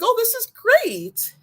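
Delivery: high, slow, gushing oh this is great; mock over-the-moon relief; delighted quote. Quoting her own joy after the shot, hammed-up delight.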